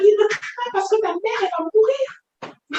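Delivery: high voice mimicking the excisers; retold warning, pitched high and stretched at the end; imitated warning. Survivor quoting women silencing the crying girl, high imitated warning.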